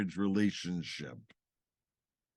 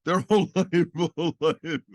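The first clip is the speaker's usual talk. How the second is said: laughing disbelief; 8 semitones higher, 7 dB louder than usual. Real, not acted. Teasing the "whole life" claim.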